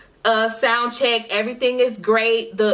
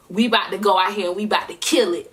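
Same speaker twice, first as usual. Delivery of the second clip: confident pump-up; faster than usual. Retold or imitated. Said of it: "that type of vibe".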